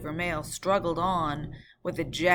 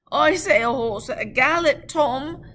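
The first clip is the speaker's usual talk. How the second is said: loud, higher alarm; guard alarmed; 9 semitones higher, 10 dB louder than usual. Acted. Guard warning of a galloping horse, loud. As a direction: correct him urgently. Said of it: "returned the guard".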